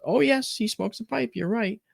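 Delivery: grandmother's voice. Retold or imitated. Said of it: "She goes".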